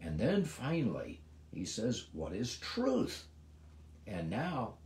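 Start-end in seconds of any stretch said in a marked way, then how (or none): 2.1-3.3 contemptuous pity. Acted. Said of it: "he is contemptuous pity".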